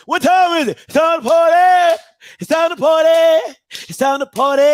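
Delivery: loud mock party chant; juke joint performer. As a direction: call it out like a juke joint bandleader. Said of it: "playing at the juke joint".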